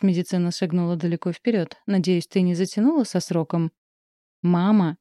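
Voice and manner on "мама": shout. A narrator's reading. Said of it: "крикнула я".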